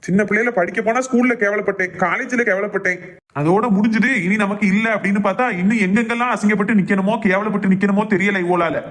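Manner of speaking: angry venting about being shamed; angry rant. Acted. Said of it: "ஏன் இப்படி கத்துதான்".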